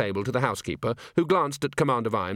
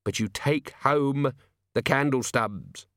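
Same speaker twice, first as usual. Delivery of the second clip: gentle; 3 semitones higher than usual. Acted. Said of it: "said Vimes gently".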